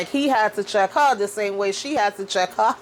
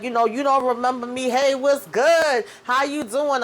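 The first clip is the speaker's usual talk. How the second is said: fake-familiar greeting; 3 semitones higher than usual. The speaker greets a music producer as if they've met, mock-friendly. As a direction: play it like she's old friends with him.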